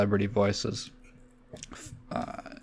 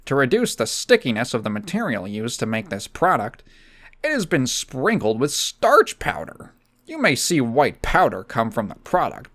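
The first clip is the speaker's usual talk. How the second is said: Linkara voice. Acted. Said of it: "I could do Linkara".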